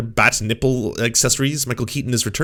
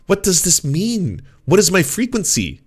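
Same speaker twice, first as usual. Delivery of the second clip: baffled; 8 semitones higher than usual. Real, not acted. Baffled by the letter's wording.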